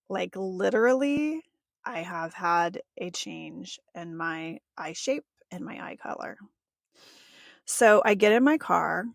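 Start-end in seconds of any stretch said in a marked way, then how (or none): 3.0-6.4 awed whisper. Real, not acted. Telling listeners about her changed eyes, in an awed whisper. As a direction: drop to a breathy whisper.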